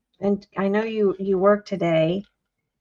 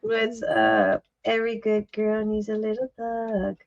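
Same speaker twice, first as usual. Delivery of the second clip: thug voice; 4 dB quieter than usual. Pretend. Jokey thug voice after laughter.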